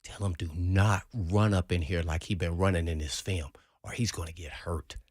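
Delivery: low, calm and menacing, fading to a whisper at the end; quiet threat delivered without heat; imitating a calm, softly dangerous teammate; real calm. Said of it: "this is how he was talking. Real calm".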